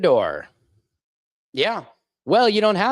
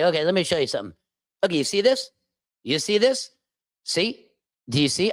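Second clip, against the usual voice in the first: mocking Fox host; faster than usual. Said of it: "this is what they're doing on Fox News".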